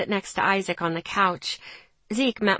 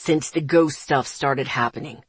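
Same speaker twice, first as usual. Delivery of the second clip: put-on young man voice; 7 semitones lower than usual. A narrator's reading. Zeke's voice in story.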